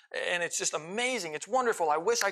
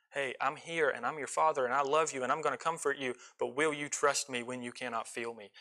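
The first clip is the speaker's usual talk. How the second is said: gentle voice of God; 4 semitones lower, 4 dB quieter than usual. Acted. Preacher giving God's reply to the doubter, low and soft. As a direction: lower and softer, a father reassuring his child.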